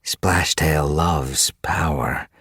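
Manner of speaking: a touch of menace, drawn out slowly; growled. Acted. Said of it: "Duskfur growled".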